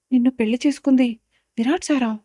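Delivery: loud astonished cry; stunned shout to her sister; shouting in surprise. Acted. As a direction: blurt it out loud in shock. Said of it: "అని గట్టిగా అరుస్తుంది".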